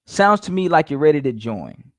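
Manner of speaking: "ready to join" falling as a command; statement that swings down to "join"; downswing tone. Shown as a demonstration. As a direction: bring "join" down firmly. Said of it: "start with a downswing tone".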